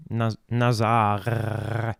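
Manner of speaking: "nasar" very slow, as "nah-zar" with a long r; French-style nasar. Shown as a demonstration. Naming an organ stop to a colleague, drawn-out French "nasar". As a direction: draw out the r of "nasar".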